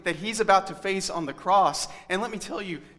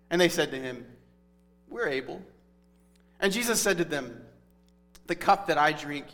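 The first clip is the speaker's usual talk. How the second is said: scripture reading. Acted. Reading scripture passage aloud.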